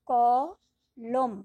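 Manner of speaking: slow, long-held কলম; stretched syllable. Shown as a demonstration. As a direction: hold the first sound of কলম. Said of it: "টানতে পারছি মুক্তাক্ষর".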